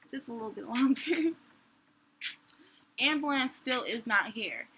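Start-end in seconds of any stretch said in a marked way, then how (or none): 0.1-1.3 laughing plea. Real, not acted. Begging baby, laughs mid-plea.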